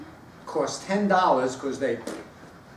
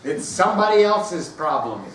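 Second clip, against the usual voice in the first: gleeful relief; 7 dB louder than usual. Retold or imitated. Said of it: "I go".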